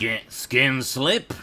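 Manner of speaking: slow mock French accent with a questioning lift. Shown as a demonstration. Redoing the name in French accent on request. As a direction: redo the name like a hammy Frenchman. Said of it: "say it again with a French accent".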